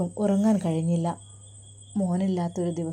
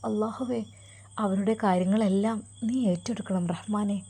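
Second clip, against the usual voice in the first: tearful mother's prayer. Acted. Mother prays as son leaves.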